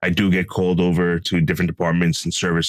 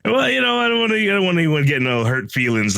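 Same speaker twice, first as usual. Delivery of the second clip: mock defensive; 11 semitones higher than usual. Teasing reply after co-host's jab.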